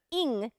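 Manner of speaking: "in" sounded as a clear "ing" with NG; full ING ending. Shown as a demonstration. Teacher showing the ending to avoid, clear NG on "in". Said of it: "thinkingの最後のinではなく".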